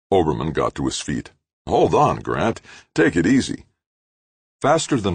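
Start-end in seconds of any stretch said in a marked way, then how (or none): 1.7-3.6 higher, louder plea to calm down; trying to stop a violent man; urgent calming. A narrator's reading. Oberman urging Grant to calm down, higher and louder.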